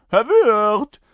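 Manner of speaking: loud, drawn-out call for the landlord. A narrator's reading. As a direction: holler slowly for service. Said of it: "und rief". (lautes, gedehntes Rufen)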